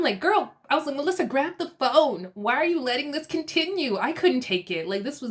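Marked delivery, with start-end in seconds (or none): 0.2-0.5 high-pitched, exasperated call; exasperated plea. Retold or imitated. Viewer pleading with Melissa, exasperated. 1.0-4.0 raised pitch, urgent appeal; exasperated plea. Retold or imitated. Viewer urging Melissa to end prank, exasperated plea.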